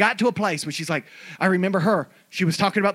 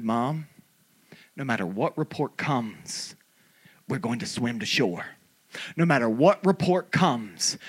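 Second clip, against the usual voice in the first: building preaching; slower than usual. Real, not acted. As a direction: start hushed, build line by line into a declaration.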